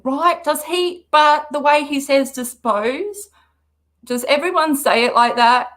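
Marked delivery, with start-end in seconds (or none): 2.3-3.3 twangy dispose. Retold or imitated. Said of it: "I gave that extra twang".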